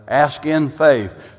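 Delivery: "in" leaned on in a slow phrase; slowly emphasize the word "in"; stress on IN. Shown as a demonstration. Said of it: "lays the emphasis on the word in".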